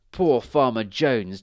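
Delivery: slow, loud mock pity, lightly witchy; gloating witch. A narrator's reading. Witch at the village pump, gloating over farmer. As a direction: gloat slowly with mock sympathy. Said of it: "chuckled the witch".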